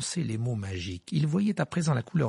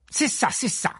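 high, louder, booming cut-off; 12 semitones higher, 4 dB louder than usual. A narrator's reading. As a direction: drown out the word with a booming voice. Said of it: "d'une voix sonore".

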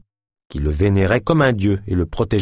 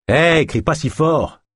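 growled rebuke; 7 semitones higher, slower than usual. A narrator's reading. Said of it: "grogna Geoff".

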